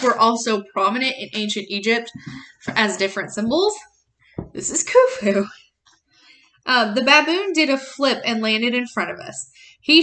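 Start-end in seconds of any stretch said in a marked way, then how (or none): 4.5-5.5 whisper. Acted.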